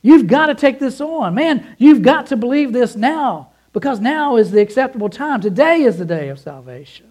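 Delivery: high, loud, urgent pleading; pleading with deep emotion. Acted. Paul pleading with the church, high and loud. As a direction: beg them to believe it, full of feeling. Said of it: "with the deepest emotion and pleading".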